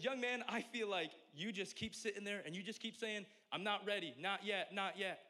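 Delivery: high, accented old preacher impression; imitated elderly preacher's accent; Pastor Charlie's accent. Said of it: "I can't do the accent the whole time".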